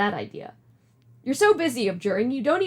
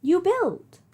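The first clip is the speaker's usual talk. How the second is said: Nana voice; 6 semitones higher than usual. Acted. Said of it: "Do you like my Nana voice?".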